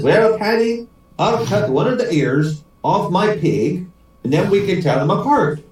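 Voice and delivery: lilting Irish joke voice; Irish accent. Acted. Paddy proposes a fix to his mate, Irish accent. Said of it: "try out my Irish accent".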